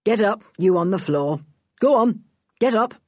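lightly voiced commanding policeman; authoritative inspector's command. A narrator's reading. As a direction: give a firm police order. Inspector orders man off the floor.

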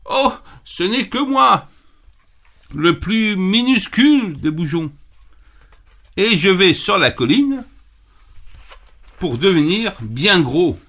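put-on high, small kid-goat voice; the littlest goat, timid and pleading; tiny little voice. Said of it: "d'une toute petite voix".

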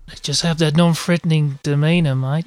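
attempted Aussie accent, drifting towards Kiwi; Australian accent. Podcaster imitating how Aussies win you over, attempted Australian accent. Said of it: "that, that accent".

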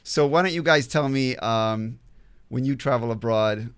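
ordinary talk, nothing marked

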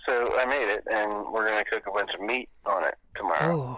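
tinny phone audio; phone speaker. Real, not acted. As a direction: voice over a speakerphone. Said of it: "Put him on speaker".

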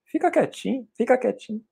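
put-on soft, high-pitched hush, like calming a child; hushed high shush. Shown as a demonstration. Teacher hushing the audience, soft and high. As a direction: coax quiet with a soft high voice. Shushing filler words, showing silence.

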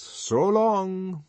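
high, drawn-out and condescending; patronizing. A narrator's reading. Bernard to the warden at the lift, patronizing. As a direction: wave him off airily. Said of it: "he said patronizingly".

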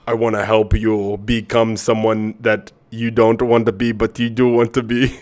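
mock stereotypical Indian accent, slowed; a deliberately horrible Indian accent; bad Indian accent. Joking pep talk to listeners, in a bad Indian accent. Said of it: "that was a horrible stereotypical Indian accent".

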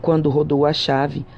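usual speaking voice

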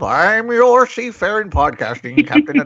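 hint of a cartoon pirate; lightly voiced pirate captain. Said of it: "I should sound like the pirate guy from SpongeBob".

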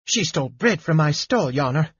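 a lightly voiced indignant baker; crying baker. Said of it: "cried the baker".

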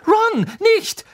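a sharp, high, angry protest. Acted. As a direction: stop him sharply. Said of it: "sagte Hermine zornig".

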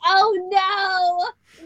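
lightly voiced copied Karkat; hint of an impression. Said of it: "in her Karkat voice".

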